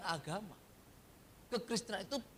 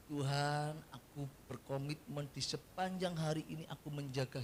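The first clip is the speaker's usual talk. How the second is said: soft, earnest example prayer; humble prayer; 5 semitones lower, 5 dB quieter than usual. Shown as a demonstration. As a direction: pray it gently and sincerely. (doa yang lembut dan tulus)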